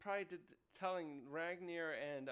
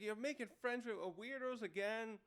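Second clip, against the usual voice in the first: higher-pitched mock exasperation; fed up; 5 semitones higher than usual. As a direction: play a scolder who's had enough. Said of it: "getting fed up".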